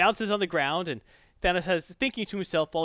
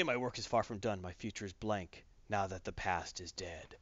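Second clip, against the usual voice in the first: Gamora's bleak line; 7 semitones lower, 10 dB quieter than usual. Retold or imitated. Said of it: "she does say".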